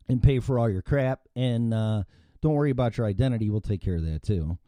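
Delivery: mock politician voice. Ranting vlogger mimics pandering politicians to migrants, sarcastic mock voice. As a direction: play a smarmy politician winking at voters. Mocking politicians addressing illegal immigrants.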